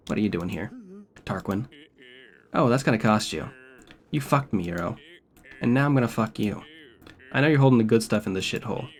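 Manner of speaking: lightly voiced smug British thug; menacing British tough guy; British villain voice. Voices game character dialogue.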